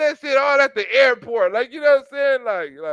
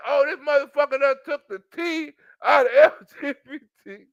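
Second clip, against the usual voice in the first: higher mock wail broken by laughter; mock upset, laughing; 4 semitones higher than usual. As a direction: whine it while cracking up. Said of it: "They're like".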